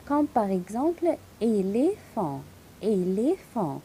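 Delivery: éléphant slow, both é closed; closed é sound. Shown as a demonstration. Teacher modelling éléphant slowly for students. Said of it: "donne-moi le son fermé".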